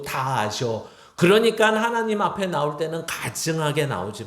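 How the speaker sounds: put-on a father lecturing his kids bluntly; God scolding his children. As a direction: pastor voicing God's stern rebuke to believers. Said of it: "말을 하죠. 야".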